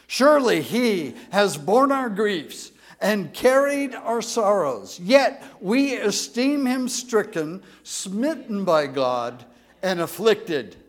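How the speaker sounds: strong, firm congregational reading; read with strength. Shown as a demonstration. Pastor leading the church in a strong reading. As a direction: read it out boldly together. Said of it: "read it with some strength in our voices".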